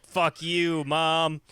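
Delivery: high, loud, drawn-out cry at Mom; hammed-up son's furious wail; mock angry outburst. Boy Punzel lashing back at demon mom, mock fury.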